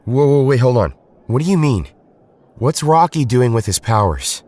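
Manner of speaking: a leader suddenly alarmed about his teammate; alarmed surprise. Acted. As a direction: stop him short in alarm. Jason alarmed by the news.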